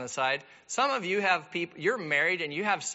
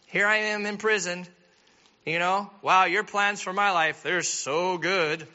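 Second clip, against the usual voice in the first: mock-grateful sarcasm, a bit louder; sarcastic Joseph; 3 dB louder than usual. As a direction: thank God with biting irony. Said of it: "Joseph's probably thinking".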